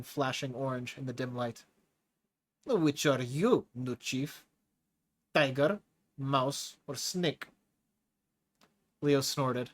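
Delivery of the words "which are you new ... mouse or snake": a big brute's broken-English drawl, amused; lightly voiced hulking prisoner with a foreign accent; a menacing brute enjoying scaring the new chief; Tigra's heavy accent. Tigra challenges Leo, slowly.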